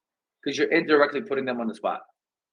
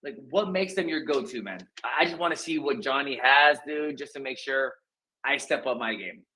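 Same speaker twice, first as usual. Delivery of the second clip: casual curious; 3 semitones higher than usual. Pretend. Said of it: "Or, like".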